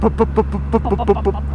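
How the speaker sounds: popping exhaust noises, pup pup; imitating backfire. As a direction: mimic a bike backfiring. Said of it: "It just goes".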